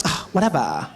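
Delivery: light dismissive whatever; breezy brush-off; casual whatever. Shown as a demonstration. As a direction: shrug it off easily. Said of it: "just be like".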